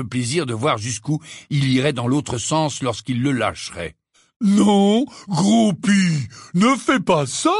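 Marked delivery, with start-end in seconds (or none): 4.4-7.5 loud, higher, slowed warning; exclaiming. A narrator's reading. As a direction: stop him loud and firm. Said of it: "s'exclama Hagrid".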